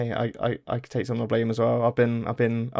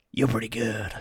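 Solid Snake voice. Shown as a demonstration. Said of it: "can you give me a little demo of the".

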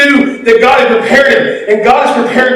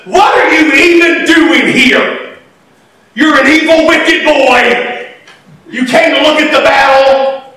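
mock angry brother, slow and raised; scolding older brother; 3 semitones higher than usual. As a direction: scold him like a bossy big brother. Oldest brother scolding David.

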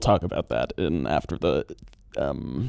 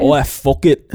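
mock British; 3 semitones higher, 5 dB louder than usual. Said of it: "do the voice".

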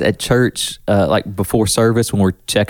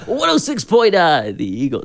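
eagle voice; 7 semitones higher than usual. Shown as a demonstration. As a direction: croon the station call like a DJ. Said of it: "Your Eagle voice".

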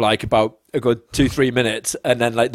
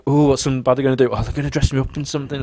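dismissive; faster than usual. Retold or imitated. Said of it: "people think".

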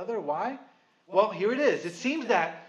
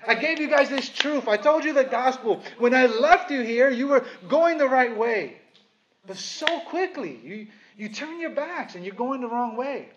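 voicing Paul; 2 semitones higher than usual. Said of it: "It almost feels like he's saying".

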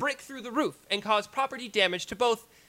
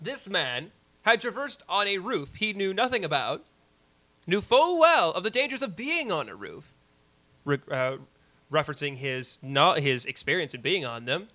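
courtroom lawyer; 2 semitones higher than usual. Acted. Closing argument continued.

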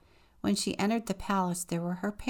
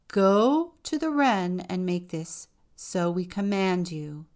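growled; 7 dB louder than usual. Acted. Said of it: "they growled".

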